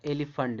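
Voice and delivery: "एलिफेंट" as eli-funt; last vowel of "एलिफेंट" reduced; correct pronunciation. Shown as a demonstration. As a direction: say "एलिफेंट" with a short uh before nt. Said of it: "इसको पढ़ा जाता है".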